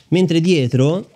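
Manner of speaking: breathless, slow and panting; out of breath. Real, not acted. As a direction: talk while catching your breath. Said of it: "scusate il fiatone". (senza fiato)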